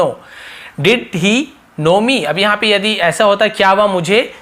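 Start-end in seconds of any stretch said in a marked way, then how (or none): 0.8-2.2 each word given room; slow model question. Shown as a demonstration. Teacher slowly repeating the question to students. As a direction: draw the question out for learners.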